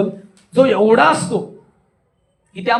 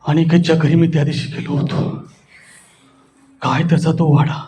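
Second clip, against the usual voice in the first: low, ominous lead-in with pauses; spooky storytelling; 7 semitones lower than usual. Shown as a demonstration. Teacher scaring pupils about Aniket's house, low and eerie. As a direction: set up a frightening tale. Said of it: "तिच्या पुढचा आहे बघा भयानक".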